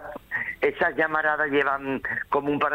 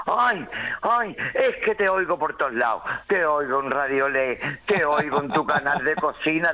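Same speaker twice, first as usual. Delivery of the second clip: gushing lady fan. Retold or imitated. A Sevillian fan hugging Rafa, gushing in a light mock voice. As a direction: gush over him like a starstruck fan. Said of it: "y ya de pronto me dice".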